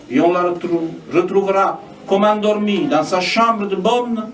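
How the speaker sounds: measured lines with falling cadences; spoken poetry reading; poem recitation. Acted. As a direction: recite it as verse, pausing between lines. Reads own poem aloud.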